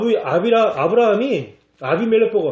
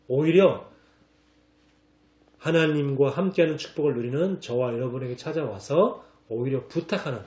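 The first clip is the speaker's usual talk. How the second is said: ordinary delivery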